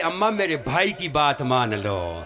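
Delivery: rising to a loud, high wailing cry; wailing lament. Acted. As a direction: build from pleading to a loud, high-pitched wail. Climax of the majlis lament.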